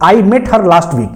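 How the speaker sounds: each word laid out slowly for dictation; teacher slowly reading the corrected example. Shown as a demonstration. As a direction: read the sentence slowly for students to copy. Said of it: "जैसे मैं कह दूं".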